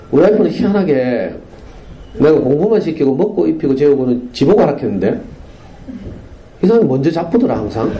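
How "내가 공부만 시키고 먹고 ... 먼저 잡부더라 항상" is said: ordinary delivery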